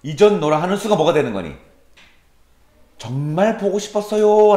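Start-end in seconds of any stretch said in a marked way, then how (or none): 3.0-4.5 high, drawn-out mock yearning; lightly hammed-up heartfelt plea; acted longing. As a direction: stretch it out high, as if confessing you missed them. Voicing the poem's hidden true feeling.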